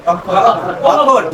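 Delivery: অক্ষর stretched very slowly, syllable by syllable; drawn-out word. Shown as a demonstration. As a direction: draw অক্ষর out slowly for the class. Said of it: "আর যদি উচ্চারণ করি?". (অক্ষর শব্দটা খুব ধীরে টেনে টেনে)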